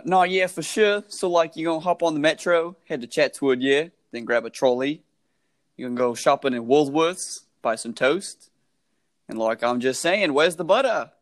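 put-on a light, mostly own-voice Australian accent; lightly put-on Australian accent for the host; Australian impression. Friend asked for an Australian impression, lightly voiced Australian accent. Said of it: "Give us your best Australian impression".

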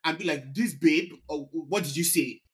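mock jealous girlfriend. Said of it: "they need to be like".

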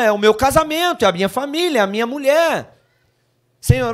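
lightly voiced newlywed husband; mock excuse. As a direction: play the proud newlywed.

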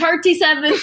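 Irish thirty-seven; Irish accent. Pretend. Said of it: "in an Irish accent, say the word thirty-seven".

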